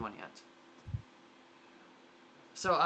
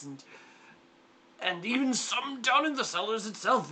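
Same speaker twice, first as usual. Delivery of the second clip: fussy uncle; 3 semitones higher than usual. Acted. Uncle telling adventurers about the wine thieves, lightly fussy.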